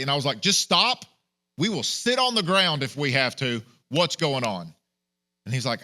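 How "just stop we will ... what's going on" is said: exasperated plea. Retold or imitated. Pleading with commander to explain.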